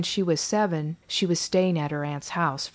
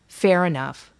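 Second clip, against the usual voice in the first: louder, sarcastic retort; 6 dB louder than usual. Acted. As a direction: toss it back sarcastically. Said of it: "responding sarcastically".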